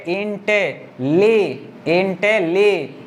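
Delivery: इंटे and ली as separate beats; syllable chunks. Shown as a demonstration. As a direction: break between इंटे and ली. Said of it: "एक बार में इतना पढ़ेंगे".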